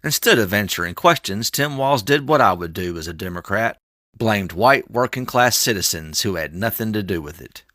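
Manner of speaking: parody news anchor. Acted. Reads a mock news report.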